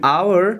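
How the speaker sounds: "our" said with no H sound, starting on the vowel; silent H. Shown as a demonstration. English teacher showing learners a silent-H word, "our" with silent H. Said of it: "حروف H را تلفظ نمونیم".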